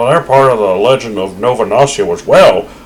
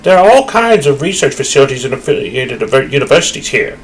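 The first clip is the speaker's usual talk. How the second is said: bright-eyed game guide character; cheerful tour guide; 6 semitones higher than usual. Acted. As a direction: sell the observatory like an eager guide. Reads game guide dialogue.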